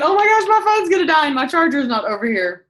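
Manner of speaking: high, mildly panicked inner voice; retold panic. Speaker voicing their worry over a dying phone, in a mock panic.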